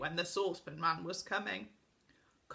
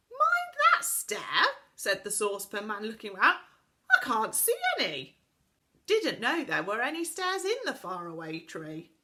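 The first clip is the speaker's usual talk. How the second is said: put-on daft old Saucepan Man; 4 semitones higher, 6 dB louder than usual. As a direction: play the deaf tinker answering the wrong thing. Saucepan Man's deaf reply.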